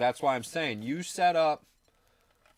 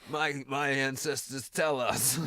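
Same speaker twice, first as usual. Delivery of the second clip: mystic elder; slower than usual. Retold or imitated. Playing local elder.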